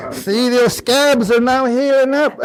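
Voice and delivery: amused, laughing delivery; laughing while talking. Real, not acted. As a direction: keep laughing as you get the punchline out. Still laughing at his own joke.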